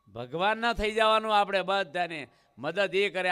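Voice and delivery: preaching loudly. Real, not acted. Preacher exhorts the listeners.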